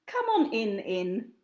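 inviting twin echoes herself. Acted. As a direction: welcome him in with an echo.

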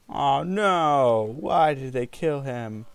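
loud, drawn-out cry of dismay; dismayed outcry. Real, not acted. Gamer watching a teammate get killed, dismayed outcry.

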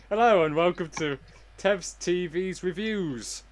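show host. Acted. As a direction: announce the show grandly. Redone show intro.

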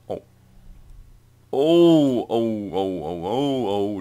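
loud, rising alarm; excited oh. Real, not acted. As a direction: blurt it out in surprise. Enemy armies suddenly appear.

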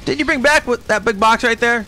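hammed-up tantrum kid yelling at staff; angry kid insults. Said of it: "Didn't you just go on a home visit?".

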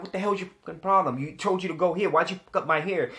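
mock cursing out. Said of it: "I'm cursing him out".

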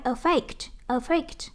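"affect" stressed on its second syllable. Shown as a demonstration. Teacher drilling a verb for students, stress on second syllable of "affect". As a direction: say "affect" leaning on -FECT. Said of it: "động từ nhấn âm hai".

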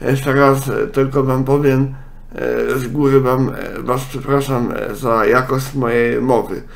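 talking with a stuffy nose; blocked nose, nasal and muffled. Real, not acted. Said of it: "mam jakiś taki zatkany z-, nos".

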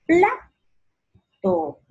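"Plato" with PLA high and loud, then TO; stress on PLA. Shown as a demonstration. Teacher showing where the force falls, stressed PLA in "Plato". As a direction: punch the first syllable of "Plato", pause before the second. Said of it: "Dónde lleva la mayor fuerza de voz".

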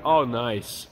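ordinary talk, nothing marked

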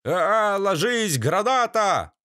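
high panicked yell of warning; grenade warning yell. A narrator's reading. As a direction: shout the warning in alarm. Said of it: "заорали на все голоса пришельцы".

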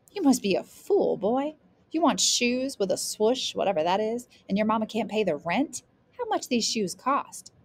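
scoffing grandmother. Acted. Grandmother scolding a boy over pricey shoes, scoffing. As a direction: scold him with rising questions.

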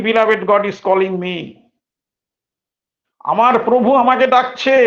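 high, loud and slow; fervent insistence. Retold or imitated. Baba telling the sahib his Lord calls him, fervent. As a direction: swell into devotion.

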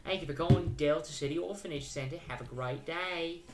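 lightly voiced British game characters; British accent. Orphanage staff describing a shy girl, British accent. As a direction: speak politely in a put-on British accent. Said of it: "I don't know why I made everybody British".

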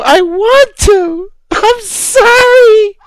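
slow, tearful, voice catching on the words; fake-weep through it like a parody vlogger; hammed-up sobbing apology; mock crying. Parody of tearful gushing vlog.

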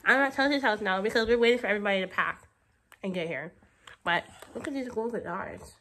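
words blurred by numbness; numb mouth. Real, not acted. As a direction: speak with a numbed mouth. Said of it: "You're gonna need subtitles for that".

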